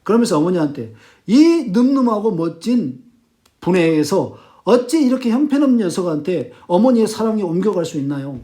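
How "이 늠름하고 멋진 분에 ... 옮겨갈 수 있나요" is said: emphatic acted reproach of mother; berating. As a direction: press her with an accusing question. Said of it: "막 닥달하면서 몰아칩니다". (어머니를 다그치는 말투)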